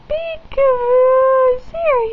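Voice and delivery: bright burst of peekaboo; excited peekaboo. Real, not acted. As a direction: pop out with a delighted peekaboo. Peekaboo reveal to baby.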